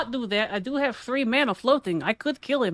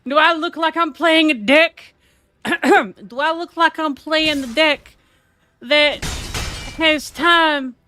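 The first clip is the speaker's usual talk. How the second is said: snooty taunt; 3 semitones higher, 4 dB louder than usual. Acted. Sneering at a card game rival, slow loud snob. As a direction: talk down to him like a rich snob. Continued snooty character rant.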